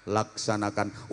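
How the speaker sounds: low, soft and slow; laid-back reply. Shown as a demonstration. Headmaster answering the commander, low and lazy. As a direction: drawl the order lazily. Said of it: "nyantai jawabnya".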